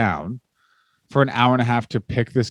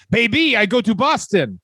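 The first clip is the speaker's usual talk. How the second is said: higher, dopey earnest brute; mock Vachon voice; 4 semitones higher than usual. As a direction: proudly explain the broken sofa like a lunk.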